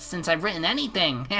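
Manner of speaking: nasal, whiny writer voice; weird nasal voice. Retold or imitated. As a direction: pinch it through the nose, whining excuses. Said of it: "in this weird nasal voice".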